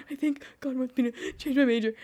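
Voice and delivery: words broken by laughter; tearful laughing confession; laughing through tears. Retold or imitated. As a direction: laugh it out while telling. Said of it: "I'm like".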